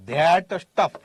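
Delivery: ધેટ drawn out, S opening સ્ટફ; that stuff. Shown as a demonstration. Teacher naming "that thing", drawn ધેટ before સ્ટફ. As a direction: stretch ધેટ, then say સ્ટફ with its S. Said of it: "આને શું કહેવાય?".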